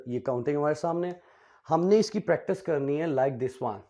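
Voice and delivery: usual speaking voice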